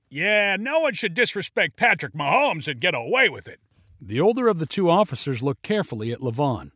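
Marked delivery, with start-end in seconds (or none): 0.1-3.6 high, indignant fan voice; shouting fan. Acted.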